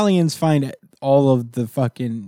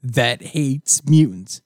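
slow scientist voice; 4 semitones higher than usual. Retold or imitated.

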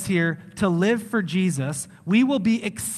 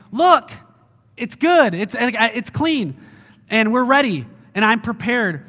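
higher, proud showing-off, loud at first; eager kid; 4 semitones higher, 4 dB louder than usual. Acted. Kid standing by the clean room for Dad, eagerly proud. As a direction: present it proudly, starting high and loud. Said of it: "We should be like that kid".

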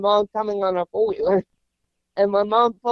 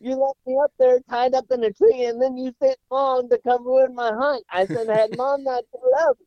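put-on higher, whiny aggrieved child; the boy lists his grievances, pouting and higher; indignant kid complaint; 5 semitones higher than usual. Boy complains to his dad about his ruined hunt, whiny and aggrieved.

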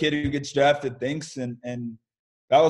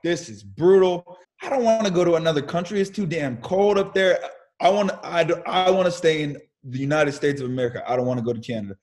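mock angry rant; 5 semitones higher than usual. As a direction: rant like a sulking kid. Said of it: "I was pissed".

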